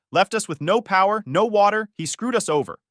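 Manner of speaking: high, loud, listing grievances; shouted accusation. A narrator's reading. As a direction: rant angrily, easing off at the end. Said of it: "he shouted".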